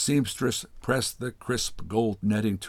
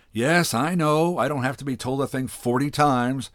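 mock-impatient sigh of a reply, a touch raised; huffed; 5 semitones higher, 3 dB louder than usual. Missus Wilson snapping at the seamstress, hammed-up huff. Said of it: "Missus Wilson huffed".

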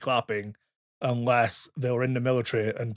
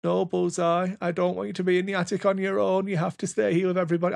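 Woody; 6 semitones higher than usual. Retold or imitated. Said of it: "And Woody says".

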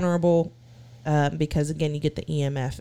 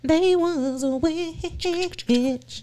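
slow spooky voice; 11 semitones higher, much slower than usual. Acted. Joking spooky reply.

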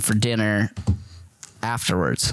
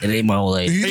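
mock denial, laughing; 4 semitones lower than usual. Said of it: "He for surely went".

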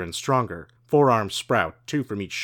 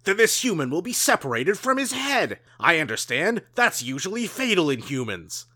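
menacing alien; 7 semitones higher, 3 dB louder than usual. Acted. Blue deer alien threatens the father.

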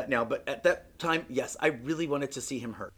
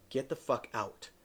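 muttered to self; 3 semitones lower, 7 dB quieter, slower than usual. Retold or imitated. Telling himself to leave.

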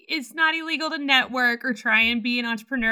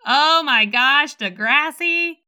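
loud, drawn-out delighted exclamation; real nostalgic excitement; excited recognition; 6 dB louder, much slower than usual. Real, not acted. Delighted at remembered TV show.

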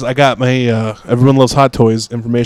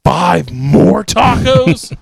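mock cook; 2 semitones higher, slower than usual. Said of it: "and was like".

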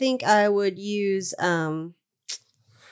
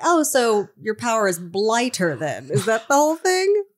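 teasing; 4 semitones higher, 3 dB louder than usual. Acted. Teasing character quote.

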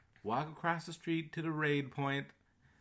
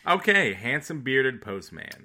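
Robin reading a clue; 5 dB louder than usual. Shown as a demonstration. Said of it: "I would like to read them more like".

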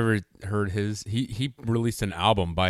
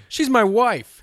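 laughing; 9 dB louder, slower than usual. Real, not acted. Laughing while quoting the husband.

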